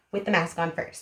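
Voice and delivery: normal talking voice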